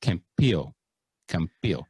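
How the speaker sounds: "Campillo" with the double L as a Y; Spanish Campillo. Shown as a demonstration. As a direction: say "Campillo" the Spanish way, "kam-PEE-yo". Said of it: "spelled C A M P I double L O".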